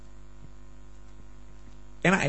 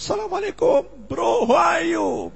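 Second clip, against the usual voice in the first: show-off English; 11 semitones higher, slower than usual. Retold or imitated. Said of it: "Padahal Inggris nggak bisa".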